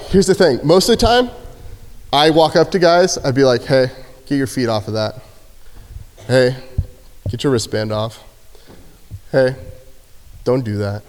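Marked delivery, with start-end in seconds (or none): 3.6-9.6 relaxed jail guard giving orders; calm guard voice. Retold or imitated. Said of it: "Super calm, cool". 10.4-11.0 low, soft, easy "don't do that"; cool quiet guard warning; calm. Retold or imitated. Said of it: "Super calm, cool".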